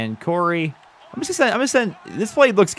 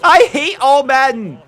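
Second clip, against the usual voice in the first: frustrated groan; 11 semitones higher, 5 dB louder, slower than usual. Real, not acted. Venting after drops.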